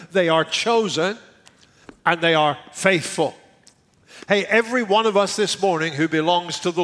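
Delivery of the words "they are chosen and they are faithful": emphatic preaching. Real, not acted. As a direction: hammer each point. Emphatic sermon points.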